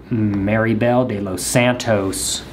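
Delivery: put-on name said slowly in an anglicized American accent; mock white voice. Thanking a viewer by name, with a mock anglicized American accent. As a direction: say "Maribel de los Santos" with a flat anglicized American accent, slowly. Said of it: "in the most white voice ever".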